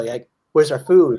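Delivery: slow, laughing through a chick's plea; can't keep a straight face as the chick; laughing baby bird. Retold or imitated. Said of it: "the baby bird's like".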